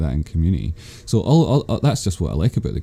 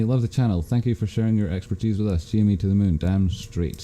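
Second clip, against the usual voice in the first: muffled; 3 semitones higher than usual. Real, not acted. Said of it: "Sorry, muffled".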